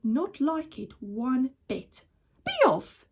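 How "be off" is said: high, loud shout to chase ducks off; angry shout. Acted. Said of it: "he cried".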